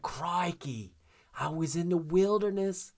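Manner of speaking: a lightly Australian crocodile-hunter voice; a mild Steve Irwin Australian accent; Steve Irwin impression. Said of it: "I always think of Steve Irwin".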